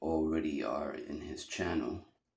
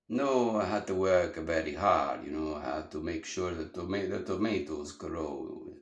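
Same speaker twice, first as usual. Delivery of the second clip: put-on old Italian immigrant accent; 7 dB louder than usual. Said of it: "immigrant Italians that would have that accent".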